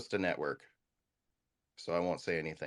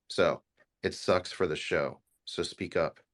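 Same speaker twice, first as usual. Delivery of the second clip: blunt, firm order; coarse demand; 4 dB louder, slower than usual. Real, not acted. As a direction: tell them straight, no softening. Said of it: "now I'll do it in a more coarse way".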